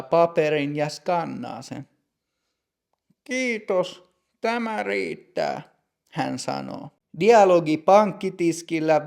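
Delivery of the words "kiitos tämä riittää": put-on stern older clerk, softer now; higher, quieter stern clerk. Older clerk telling Matti his papers are enough, higher and softer. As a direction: wrap it up as the strict teller.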